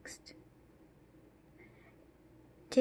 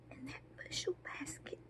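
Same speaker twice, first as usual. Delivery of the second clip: barely audible, grief held in; very soft, haunted recollection; stunned hush; 5 semitones higher, 16 dB quieter than usual. Acted. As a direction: let it fade almost to nothing. Widow recalls husband's remains.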